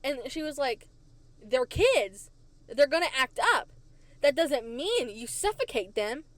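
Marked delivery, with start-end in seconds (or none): 1.4-6.2 emphatic, louder mock mom retort; indignant, punched-out rebuke; letting them have it. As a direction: imitate a mother telling teachers off. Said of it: "she let 'em have it again".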